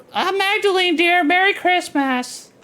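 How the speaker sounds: very high, put-on lady character voice. Voicing a woman character greeting Magdalene: put-on woman's voice. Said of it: "a different woman voice".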